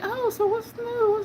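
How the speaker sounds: high, slow friendly clerk voice; imitating chatty clerk. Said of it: "they be like".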